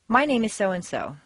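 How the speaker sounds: HELLO firmly settled, no questioning rise; sure, standard self-introduction; confident introduction. Shown as a demonstration. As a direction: introduce yourself with assurance, falling at the end. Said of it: "you'd confidently want to say".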